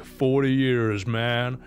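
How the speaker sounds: slow imitation of the driver; lightly drawled driver impression; Uber driver's voice. Uber driver answering a passenger's small talk, imitated slow drawl. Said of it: "And he's like".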